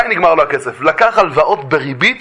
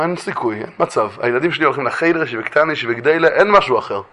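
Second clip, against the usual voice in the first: lower, softer firm refusal; quiet refusal; 3 semitones lower, 4 dB quieter than usual. Retold or imitated. Wife answering the king about her children, quiet refusal. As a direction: turn him down in a low, soft voice. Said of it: "מה היא אומרת לו".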